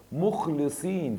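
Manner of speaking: مخلصين slow, with a long -een ending; accusative form shown. Shown as a demonstration. Teacher models the accusative for students, ending stretched. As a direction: draw out both syllables at the end of مخلصين. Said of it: "انصب".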